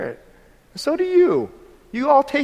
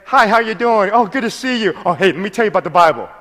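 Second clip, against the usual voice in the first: chirpy rehearsed greeting, rushing fast into the pitch; lightly hammed-up door-to-door preacher; mock canned evangelist; 4 dB louder than usual. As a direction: parody a salesy witnessing script. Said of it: "four things we learned from our evangelism class".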